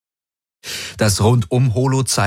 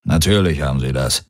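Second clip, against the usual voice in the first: low grumble under the breath; grumbling to himself; 5 semitones lower than usual. A narrator's reading. Darayos to himself as the ships appear: low grumble. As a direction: mutter it lower, half to yourself. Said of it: "brummte Darayos in sich hinein".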